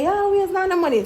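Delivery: mock teen sass. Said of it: "me always I say".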